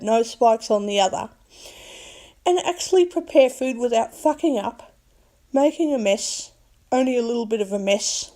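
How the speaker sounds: 高めの声で、嬉しそうにまくし立てる; excited gush. Retold or imitated. Imagined delight in the kitchen.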